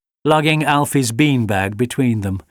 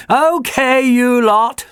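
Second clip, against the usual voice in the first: high, louder cheerful call to the dogs; laughing; 13 semitones higher, 6 dB louder, slower than usual. A narrator's reading. Jenny laughs at her dogs, higher and louder. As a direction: laugh the pack out of the way. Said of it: "laughed Jenny".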